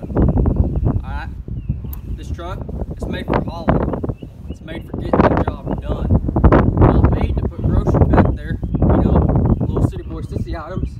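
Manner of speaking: loud, slow cowboy bellow; mock shout. Cowboy shouting down sissy city boys from his truck bed, loud and slow. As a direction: yell it like you're scorning city boys.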